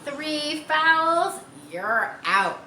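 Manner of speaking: loud, high call; yelled. Acted. Mary calling Harry out, loud yell. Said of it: "Mary yelled".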